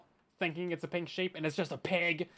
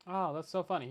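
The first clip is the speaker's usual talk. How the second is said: imitating depressed voice; 4 dB quieter than usual. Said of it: "he says in the most depressed voice".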